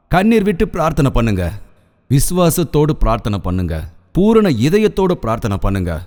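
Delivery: urging each phrase with rising emphasis; preacher's exhortation. Acted. Preacher urging the congregation to pray, fervent exhortation. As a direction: press the congregation to pray earnestly.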